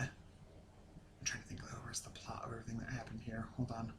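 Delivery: very quiet, half-whispered aside; thinking aloud. Real, not acted. Reviewer trying to recall the episode's plot, hushed thinking aloud. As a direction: drop right down, talking to yourself.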